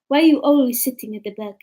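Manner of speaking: imitated Arabic-accented teacher; mock Arabic teacher's accent. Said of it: "Why are you giving me that accent?".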